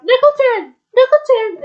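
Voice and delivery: very high, loud repeated yell; full-voiced, high-pitched call. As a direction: yell twice for help. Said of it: "Nickel called out".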